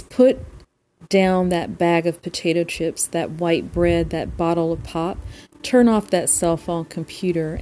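steady recital in short phrases; poem reading. Real, not acted. Host reads another poem by Joy, steady poem reading. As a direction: read verse aloud, pausing at line breaks.

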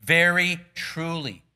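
slow, weighty very truly; solemn emphasis on very truly; emphatic. Shown as a demonstration. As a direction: lean on very in very truly. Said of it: "this is emphatic in the original language".

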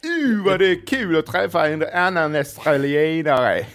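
hammed-up, loud Australian accent. Australian greeting a fellow countryman, hearty mock-Australian accent. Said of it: "jag kommer från Australien".

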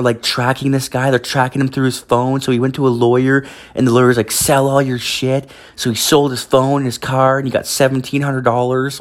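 a hint of a chatty young woman; imitating girlfriend's friend. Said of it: "it's just like".

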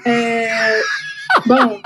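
laughing through the words; words broken by laughter. Real, not acted. Cracks up mid-pitch.

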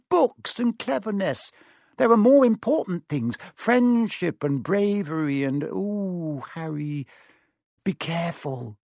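put-on high, emotional girl's voice, easing down at the end; heartfelt praise giving way to worry; fervent, then tenderly anxious for a friend; Hermione. Story figure Hermione.

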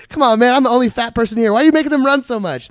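loud, high comic complaint; mock indignant pleading. Fat comic pleading with the officer for everybody, mock-indignant yell. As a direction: protest at full voice.

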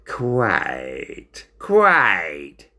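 drawn-out, grudging agreement; grimacing. Acted. Ringmaster hearing of Binnicky's friends, grudging and drawn out. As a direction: stretch it out through a grimace. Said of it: "paused and grimaced".

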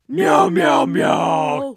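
cat meow. Acted. Cat sound effect bit.

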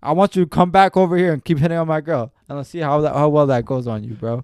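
loud, fired-up challenge; loud heated dare to the flirter. Real, not acted. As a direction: dare him to try it again. Angry rant about the flirter.

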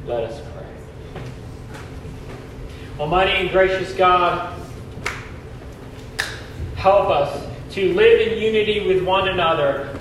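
solemn prayer in a reverberant hall; cathedral echo. Acted. Leads a closing prayer.

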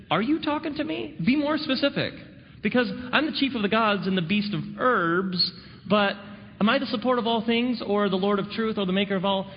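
lightly voiced god, puzzled and fussy; hint of a bored god asking which title; mock god voice. God answering a prayer, mock.

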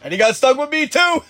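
high, laughing self-mockery. Real, not acted. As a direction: squeal it out laughing.

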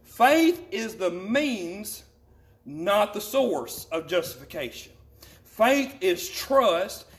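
slow, deliberate reading with pauses between phrases; measured, emphatic teaching pace. Real, not acted. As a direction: read it out slowly, weighting each key word. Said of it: "I want to read this very slowly".

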